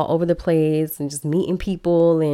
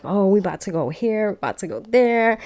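lightly mimicked eager husband, rising higher; excited husband; 4 semitones higher than usual. Husband hyped on the plane about the trip, eager and rising. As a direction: bounce up on each destination. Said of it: "he's excited".

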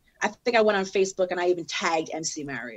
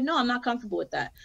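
polite, quick, lightly softened refusal; nicely; 3 semitones higher, 4 dB quieter, faster than usual. Retold or imitated. Rapper declining the promoter's name change, nicely. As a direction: turn it down gently, without pushing. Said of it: "I nicely said".

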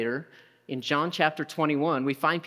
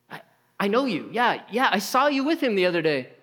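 higher, pressing voice; insistent accuser; 5 semitones higher than usual. Acted. Servant insisting to Peter she saw him, higher and pushy. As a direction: push the claim higher and harder.

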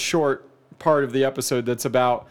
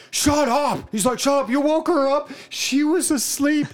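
high, mock-scolding voice; scolding husband; 10 semitones higher than usual. Husband to barking dog, high mock scold. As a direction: hiss at the dog in mock anger.

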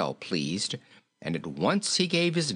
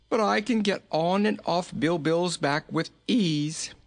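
high-pitched merry character voice; genial, high king; jolly little king; 9 semitones higher than usual. A narrator's reading. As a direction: say it high and pleased. Jolly king resumes his explanation.

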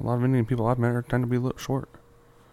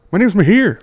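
greeting in a put-on Indian accent; 11 semitones higher, 9 dB louder than usual. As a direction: switch into an Indian accent, louder. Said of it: "he doesn't sound Indian at all".

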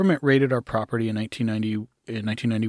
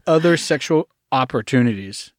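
high, loud laughing confession; 5 semitones higher, 6 dB louder than usual. Real, not acted. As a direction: laugh it out, a little embarrassed.

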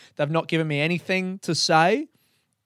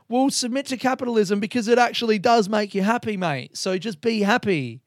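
other inner voice; 6 semitones higher than usual. Retold or imitated. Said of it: "the other part of me is like".

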